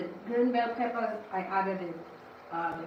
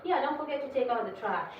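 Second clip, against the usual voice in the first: higher-pitched needless reminder; mock nagging; 5 semitones higher than usual. Someone reminding whoever already carries the trash, mock nagging. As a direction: imitate someone nagging about a chore.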